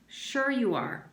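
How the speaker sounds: slow smug sarcasm; sarcastic drawl. Acted. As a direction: stretch it out smugly. X-Ray sarcastic to Stanley.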